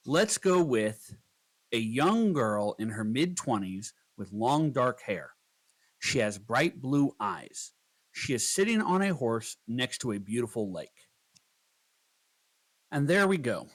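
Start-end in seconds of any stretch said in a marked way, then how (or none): 1.7-10.1 slow prompt dictation. Shown as a demonstration. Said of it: "I'll then adjust my prompt".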